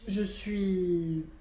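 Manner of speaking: hiccups breaking the words; hiccuping. Real, not acted. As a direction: speak through a hiccup. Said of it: "Pardon, j'ai le hoquet".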